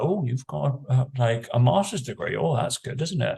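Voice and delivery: a hint of a gushing admirer; impressed people. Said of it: "some people have been like".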